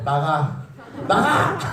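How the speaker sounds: mock angry parent. Preacher imitating an angry mom to students, mock shouting. Parent's reaction voiced in story.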